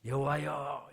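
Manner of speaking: 여호와여 called out with falling awe; exclamation of awe. Shown as a demonstration. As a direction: cry out 여호와여 in wonder. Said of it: "감탄사죠". (감탄하며 여호와여)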